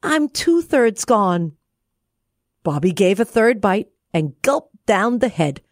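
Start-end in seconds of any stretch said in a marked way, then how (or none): 0.0-1.6 slow, high, sadder cookie voice; lightly voiced, slowly fading; gingerbread man voice. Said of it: "said the gingerbread man".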